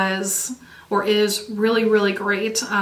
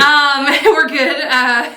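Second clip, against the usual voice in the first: laughing; 4 semitones higher, 3 dB louder, slower than usual. Real, not acted. Laughing after hiccup apology.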